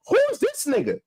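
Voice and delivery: high indignant yell of who is this; retold shout. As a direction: shoot the question up high and hard.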